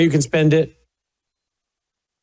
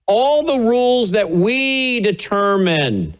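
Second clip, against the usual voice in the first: slow, higher-pitched, drawn-out "All the rules that we determine"; emphatic restatement; 5 semitones higher, slower than usual. Retold or imitated. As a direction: spell it out slowly, pitched up, leaning on "we". Restating the clip for listeners.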